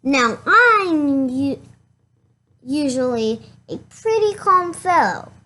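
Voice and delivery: building agitation, voice climbing; a calm fellow working himself up; getting worked up. Acted. Wolf working himself up over the insult to his granny.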